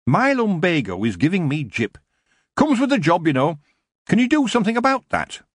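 angle for a favour with a groan; complaining dwarf. A narrator's reading. Dwarf Shrocker moaning to Tiffany about his lumbago.

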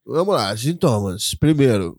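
congested Merlin voice; blocked nose. Real, not acted. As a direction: talk through a stuffed nose. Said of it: "voz de Merlin".

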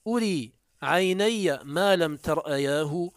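أري عيني ما لم ترأياه recited slowly, lifting on ما; reciting verse. Shown as a demonstration. Teacher quoting the poet Suraqa, slow verse recitation. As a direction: declaim the verse line slowly and deliberately. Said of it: "قال سراقة البارقي".

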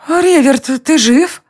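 queen echoing her husband's cry. A narrator's reading. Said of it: "вторила мужу королева". (королева вторит мужу, выше)

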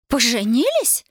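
a shocked little squeal. A narrator's reading. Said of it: "взвизгнула Аксинья".

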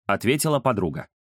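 ordinary delivery, nothing marked

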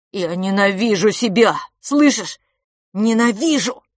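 loud high desperate cry; boy crying out that he hates himself; self-hating shout. Acted. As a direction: scream the hatred at himself.

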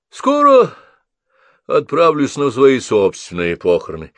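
a hammed-up gloomy old lady; old woman joking about her death; grim old woman. A narrator's reading.

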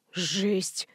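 breathy, stunned whisper of "Жесть"; soft, hushed gasp of disbelief. A narrator's reading. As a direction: barely breathe the word out in shock. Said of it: "прошептал Лёша".

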